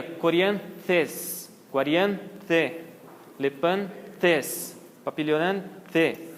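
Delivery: TH in "coriantes" and "lepantes" as in English. Shown as a demonstration. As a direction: slowly sound out "coriantes, guariante" with English TH. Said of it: "O T H é como no inglês". (TH do inglês, pausadamente)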